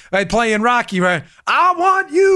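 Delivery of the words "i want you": high, stretched showboating call; hammed-up boxer's taunt, pitched way up; Apollo Creed. Boxer calls out his rival in the ring, mock bragging. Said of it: "he comes out to Sly".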